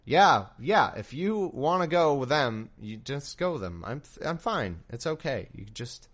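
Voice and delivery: fake-fine, sulky brush-off; pissy girlfriend. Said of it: "a pissy, like, girlfriend".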